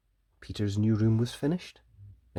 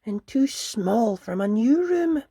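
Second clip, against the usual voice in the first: put-on higher, mildly glum child voice; sad little bunny; 13 semitones higher, 8 dB louder, slower than usual. Peter explaining his trouble to his mother, mildly sad. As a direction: say it a touch sadly like a small bunny. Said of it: "he explained to Missus Rabbit sadly".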